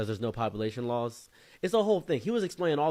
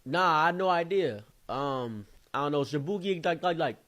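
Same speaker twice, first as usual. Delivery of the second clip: tag; 5 semitones higher, 3 dB louder than usual. Retold or imitated. Friend mimics the group's answer.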